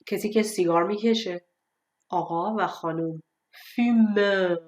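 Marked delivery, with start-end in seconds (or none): 3.5-4.6 fumeur with open eu and final French r; careful fumeur, last syllable held; contrasted French ending. Shown as a demonstration.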